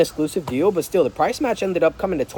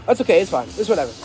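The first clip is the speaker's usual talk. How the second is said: dismissive; faster than usual. Shown as a demonstration. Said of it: "Don't be dismissive".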